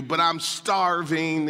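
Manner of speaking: drawn-out complaint, mildly mimicking a kid; lightly voiced snarky child. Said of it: "if they're snarky like my kids".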